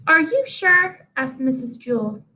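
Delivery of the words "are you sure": higher, slow unsure question; doubtful teacher. Acted. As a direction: ask it slowly and pitched up.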